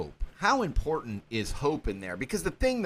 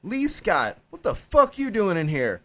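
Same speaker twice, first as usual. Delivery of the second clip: surprised greeting; 5 semitones higher than usual. Retold or imitated. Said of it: "he's like".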